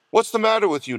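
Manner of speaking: high-pitched, sharp demand. A narrator's reading. Nurse confronts the fainting father, demanding. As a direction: challenge him impatiently. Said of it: "demanded the nurse".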